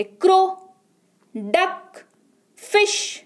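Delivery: "क्रो", "डक", "फिश" each as one syllable in a single push. Shown as a demonstration. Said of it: "मुंह से एक झटके में निकल जाए".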